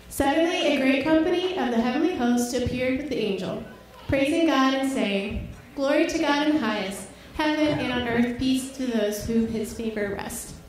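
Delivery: winded from dancing, reading scripture; breathless after a dance; out of breath. Real, not acted.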